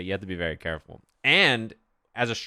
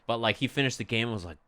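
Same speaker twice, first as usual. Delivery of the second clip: ordinary delivery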